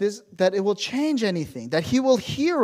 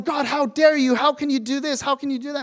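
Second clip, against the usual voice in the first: higher-pitched indignant challenge to God; angry; 5 semitones higher than usual. Acted. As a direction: act out an angry accusation, without shouting. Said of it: "even we're angry".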